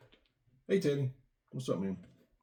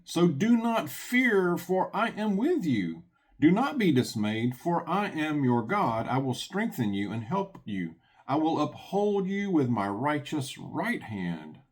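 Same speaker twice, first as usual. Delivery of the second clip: preaching the psalm with gravity; scripture reading; slower than usual. Acted. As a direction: proclaim God's words to the flock. Reads Isaiah aloud.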